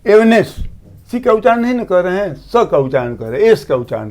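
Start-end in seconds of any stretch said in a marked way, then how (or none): 0.1-0.6 एवनेस with the S sounded and the C silent; एवनेस, S only, a bit louder; silent C demo. Shown as a demonstration. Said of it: "एस का उच्चारण हो रहा है".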